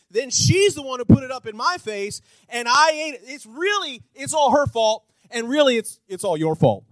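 hammed-up Adam shifting blame; mock whiny excuse. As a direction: whine like a guilty child. Adam voiced excuse continues.

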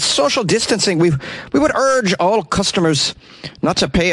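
put-on American trying an Irish accent. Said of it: "I'm gonna try to do an Irish accent".

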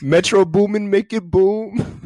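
high, loud producer-tag chant; hype tag. Pretend. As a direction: shout it like a beat tag, slow on the end. Hyping the story, producer tag.

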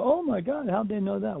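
mock amazement. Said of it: "and then you go".

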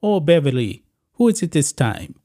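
put-on a light Italian accent, weary and teasing; mild Italian husband accent, sighing at her. Italian duke teasing his wife, in a light Italian accent. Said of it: "she does this in an Italian accent".

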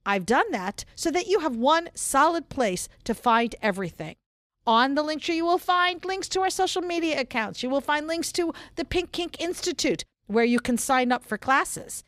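brisk upbeat announcer read. Pretend. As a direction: read the links like a show announcer. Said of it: "since you want me to use my announcer voice with the links".

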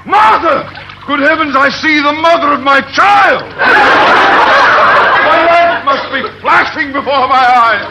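dazed as if seeing a vision; astonished. Acted. Captain sees his wife, delirious.

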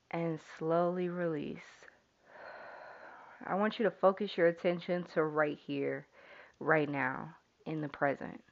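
calm meditation lead-in; guided meditation. Acted. Leads listeners in breathing.

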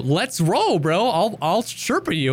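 lightly acted rallying gamer; rally a teammate, pitched a bit up; mock-eager offer to help; eager player impersonation. Voices eager high-level player offering help.

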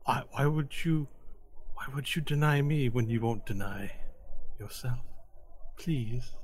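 hushed, halting plea; soft pleading. Acted. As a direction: beg softly, stumbling at the start. Rejected woman pleading with Varel.

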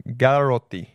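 surname with a light Italian accent; Italian-accented name. Real, not acted. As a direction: give the name an Italian lilt. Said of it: "have to say it in an Italian accent".

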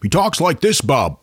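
put-on host shows off his Maine accent. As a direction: talk like your false teeth might pop out. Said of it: "your Maine accent sounds like false teeth".

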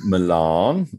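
"Milan" said muh-LAHN with a rise; "Milan" stretched and rising at the end; questioning pronunciation. Shown as a demonstration. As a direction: echo "Milan" with a long ah, as a query. Echoes the pronunciation option.

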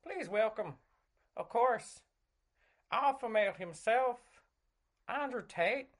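Jordan Peterson. Acted. Host introducing a very special guest, earnest impression. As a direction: play an earnest interviewer presenting a guest. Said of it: "Jordan Peterson in your".

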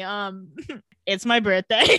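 laughing through a coy line; mock bashful birthday. The speaker hinting at his birthday, giggling. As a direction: giggle it out shyly. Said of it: "He said".

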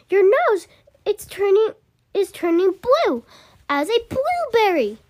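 high, loud storybook panic; screamed alarm. A narrator's reading. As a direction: cry out in rising alarm. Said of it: "screamed Missus Beauregard".

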